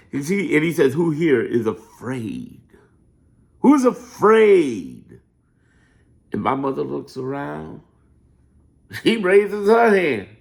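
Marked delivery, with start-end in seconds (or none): 0.9-5.2 low, very slow, rolling oratory, every word stretched. Retelling his mother's story of a speech to a crowd, Martin Luther King impression. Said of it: "You know how he said in that voice".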